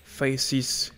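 English terms with a French accent; real French accent on English words. Real, not acted. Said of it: "Désolé pour mon accent anglais".

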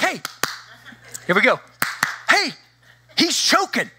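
high, urgent alarm calling for help; retelling panicked pleas to the nurse; hammed-up panic, high and pressing. Urgently telling nurse dad choking.

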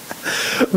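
short, breath-like laugh; chuckle. Real, not acted. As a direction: let out a brief laugh. Laughs at the pious Esau. (צחוק קצר)

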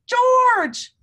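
high, loud call of the name; excited shout of a friend's name. Acted. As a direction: call out to him across the room. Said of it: "somebody shouted".

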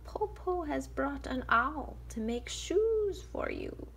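high, slow, breathy whispered wolf; whispering wolf. Acted. Wolf soothing the girl with a lie, whispered. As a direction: hiss out a sly excuse. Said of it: "the wolf said".

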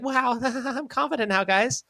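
mock-proud little pony; high, giggly cartoon cheer; newly confident Keldeo. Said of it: "then he's like".

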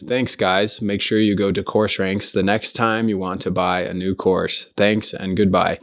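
reading it straight off the script, stiff. Shown as a demonstration. Host showing the wrong way to do an outro, stiffly read off the script. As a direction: recite the outro like you're reading it off a page. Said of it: "this is what it would sound like".

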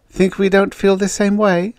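high-pitched indignant challenge; acted annoyance; angry. A narrator's reading. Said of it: "said the redhead angrily".

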